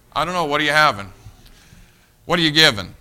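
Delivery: put-on promotion kid. Kid answering a bus worker's church invitation, mock bargaining. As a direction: call it out like a kid after freebies. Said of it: "I call 'em promotion kids".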